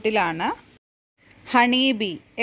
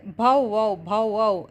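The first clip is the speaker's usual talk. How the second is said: dog bark; much slower than usual. Acted. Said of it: "ഞാൻ പറയുന്നത്".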